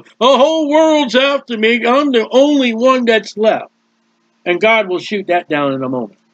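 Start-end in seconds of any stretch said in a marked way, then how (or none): 0.0-3.7 mock overblown complaint, pitched up at first; inflated self-pity. Preacher acting out discouraged Elijah, inflating his trouble. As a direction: play up the discouraged man's troubles. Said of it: "he's inflated his trouble".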